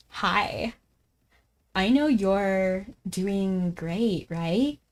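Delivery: slow, drawn-out mock Valley Girl; a hint of a Valley Girl, very slow. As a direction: stretch the words out like an arrogant Valley Girl. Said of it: "let me try to talk like a Valley Girl".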